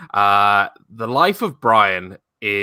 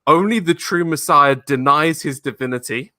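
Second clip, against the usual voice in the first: believer's voice; 4 semitones higher than usual. Retold or imitated. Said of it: "one of the believers goes".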